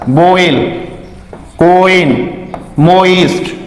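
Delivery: बोइल, कोइन, मोइस्ट with a clear "o-i" glide; word-by-word model of oi in बोइल, कोइन, मोइस्ट; oi sound. Shown as a demonstration. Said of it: "ओई होता है".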